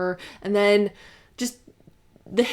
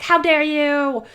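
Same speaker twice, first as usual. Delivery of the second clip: slow, higher, louder mock outrage; indignant annoying girl; 6 semitones higher, 6 dB louder, much slower than usual. Streamer mocking Akane scolding Yuki, hammed-up outrage. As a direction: ham up her outrage. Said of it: "this annoying girl voice".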